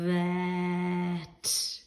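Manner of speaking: "vet" with a buzzing V up front; V sound demo. Shown as a demonstration. Teacher models the V sound in "vet" for children. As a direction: start "vet" on a long buzzing V.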